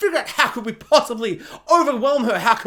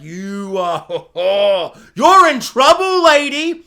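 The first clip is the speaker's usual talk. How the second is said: mock scolding; 7 dB louder, slower than usual. Guards locking up the leader, hammy loud telling-off. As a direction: scold her like a cartoon cop. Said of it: "they're like".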